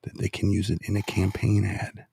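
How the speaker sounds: hushed, measured phrase; deliberately slow. Shown as a demonstration. Host explaining campaign strategy, slow and deliberate. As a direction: spell it out carefully. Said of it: "I'll just say it slowly".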